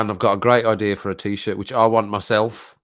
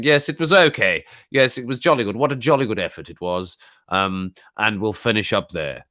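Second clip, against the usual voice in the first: hammed-up proper British politeness; quintessential British accent; 3 dB louder than usual. Streamer mocking how he would review politely, hammed-up British accent. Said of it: "quintessential British accent".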